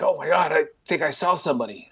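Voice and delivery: mock-spooked quote of a friend; retold freak-out. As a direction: imitate a spooked friend, without shouting. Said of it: "a friend freaks out".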